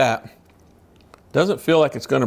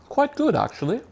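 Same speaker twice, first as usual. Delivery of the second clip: put-on high, plummy upper-class accent; mock British gentleman accent; posh gentleman voice; 11 semitones higher, 4 dB quieter than usual. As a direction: put on a posh English gent. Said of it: "Why do I speak like this?".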